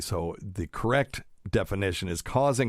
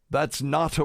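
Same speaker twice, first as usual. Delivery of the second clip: put-on higher-pitched, failed British accent; mock British boss, pitched up; attempted British accent; 8 semitones higher, 4 dB louder than usual. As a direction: have a poor go at a British accent. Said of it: "I can't do a British accent".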